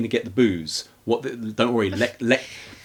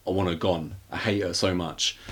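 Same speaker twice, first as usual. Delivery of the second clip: mock moan; 4 semitones lower, 6 dB quieter than usual. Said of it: "She's either crying or moaning".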